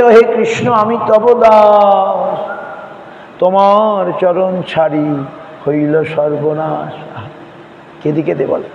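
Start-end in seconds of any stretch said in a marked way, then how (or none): 0.0-7.2 acted tearful cry. Repentant soul calls to Krishna, acted lament fading down. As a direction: cry out in devotion, then let it fall slowly.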